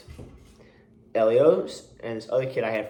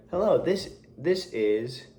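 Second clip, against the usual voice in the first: mocking mother on the phone; slower than usual. Imitating mother answering the principal's call. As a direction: mimic mom answering the principal. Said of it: "be like".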